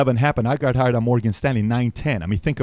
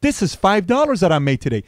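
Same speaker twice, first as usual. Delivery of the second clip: put-on crying kid; 6 semitones higher than usual. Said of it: "Kid starts crying".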